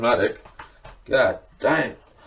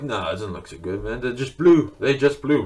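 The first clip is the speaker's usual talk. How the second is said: trying to be cool; 3 semitones higher than usual. Retold or imitated. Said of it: "I was, like, trying to be cool".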